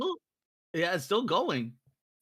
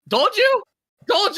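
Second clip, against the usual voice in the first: high, loud gloating yell; triumphant shout; 14 semitones higher, 12 dB louder than usual. Real, not acted. Triumphant after success.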